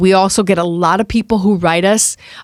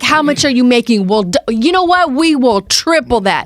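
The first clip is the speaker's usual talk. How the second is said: pushy salesman pitch; 5 semitones higher than usual. Retold or imitated. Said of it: "He's like".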